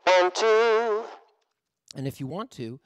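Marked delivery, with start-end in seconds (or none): 0.0-1.0 loud, higher, distorted count; amp distortion. Shown as a demonstration. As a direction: narrow filtered amp sound. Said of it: "combinations of narrow filtering and distortion".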